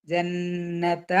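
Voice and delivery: slow, soft ജന്നത്ത with a held nasal n; two-count ghunnah. Shown as a demonstration. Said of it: "രണ്ട് count മണിക്കുക".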